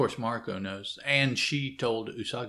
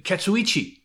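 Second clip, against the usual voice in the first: louder and higher, blurting the name; impatient yell; 8 semitones higher, 6 dB louder than usual. Retold or imitated. Usagi snapping the name at the forgetful servant, loud. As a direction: call the name out sharply.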